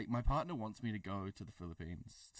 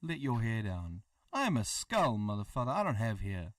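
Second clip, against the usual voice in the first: mock outrage; 3 semitones higher, 5 dB louder than usual.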